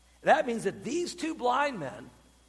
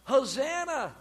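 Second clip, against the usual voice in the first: higher, drawn-out shout of praise; crying out; 5 semitones higher, slower than usual. Retold or imitated. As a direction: lightly imitate a crowd's cry. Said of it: "Here the people are crying".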